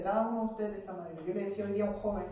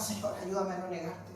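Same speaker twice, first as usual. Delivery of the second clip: soft pleading, much softer at the end; quiet prayer; 2 semitones lower, 8 dB quieter than usual. Retold or imitated. Believer praying for strength, hushed plea. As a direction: pray it under your breath. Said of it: "Y oramos".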